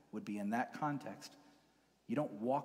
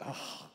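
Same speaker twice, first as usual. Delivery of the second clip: mock groan of secondhand embarrassment; pained, drawn-out "oh"; cringing groan; 3 semitones higher than usual. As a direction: groan as if unable to watch.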